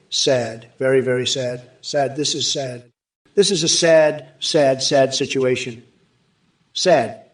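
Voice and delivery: drawn-out dismissive sad; lightly voiced Trump lament; slow mocking sigh of pity. Trump impression repeating sad.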